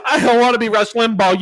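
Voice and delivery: amused laugh while answering a jab. Real, not acted. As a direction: laugh it off in disbelief. Laughing at the taunt.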